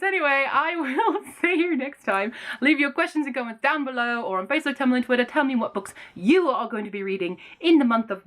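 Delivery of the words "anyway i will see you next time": laughing sign-off. Real, not acted. Signing off with a laugh.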